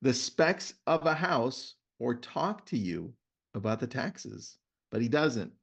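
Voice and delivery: reading a book passage to listeners; host reading a book excerpt to his guest; reading aloud. Shown as a demonstration. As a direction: read it out like a storyteller. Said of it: "Let me read to you a story".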